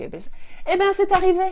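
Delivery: high, loud triumphant reveal. Real, not acted. Mother revealing her mind trick worked, triumphant. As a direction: announce the miracle proudly. Climax of the story.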